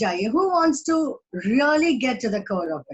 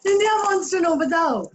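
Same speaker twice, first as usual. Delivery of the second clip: higher, insistent anchor cry; news anchor demand; 4 semitones higher than usual. Retold or imitated. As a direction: push it like a TV anchor grilling guests. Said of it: "India does not want Arnab Goswami to know". (एंकर जैसी ऊँची माँग)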